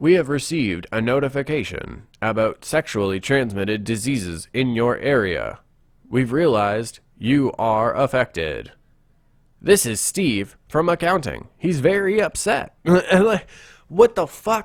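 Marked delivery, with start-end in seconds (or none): 0.0-12.7 mechanical, robotic robocall-style recorded-message voice. Retelling a phone call he answered this weekend, in a robot voice. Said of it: "a robot voice".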